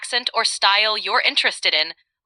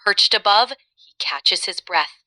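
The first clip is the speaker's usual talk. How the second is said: lower-pitched dramatic narrator, in measured phrases; action-movie narration; 3 semitones lower than usual. Shown as a demonstration. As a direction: narrate a chase scene with pauses for suspense. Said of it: "narrate a scene from an action movie".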